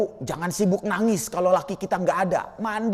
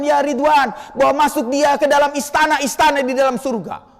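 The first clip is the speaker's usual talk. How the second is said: commanding Allah; 5 semitones higher, 4 dB louder than usual. Acted. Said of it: "Allah berkata kepada Ridwan".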